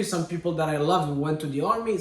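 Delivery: ordinary talk, nothing marked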